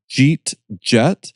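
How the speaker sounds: "Jeet Jet" slurred together, Pittsburgh style; Pittsburghese. Shown as a demonstration. Teaching hosts the Pittsburgh accent. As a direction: run "Jeet Jet" into two clipped syllables. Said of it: "So if you wrote it down, I could say".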